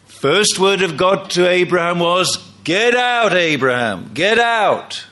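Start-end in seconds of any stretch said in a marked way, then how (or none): 2.6-5.0 stern command. Acted. God ordering Abraham to leave home, sharp command. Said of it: "I don't think he said it in that tone of voice".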